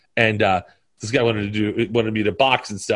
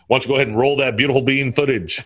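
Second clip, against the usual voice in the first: commercial voice; faster than usual. Retold or imitated. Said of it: "He goes".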